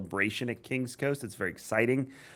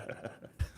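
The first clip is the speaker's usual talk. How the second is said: smoker's rasp; 13 dB quieter than usual. Real, not acted. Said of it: "I sound like I've smoked eight packs of Reds".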